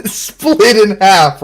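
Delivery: very slow, stretched words; drawn out slowly. Real, not acted. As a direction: drag each word out. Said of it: "S1 stretches the words slowly".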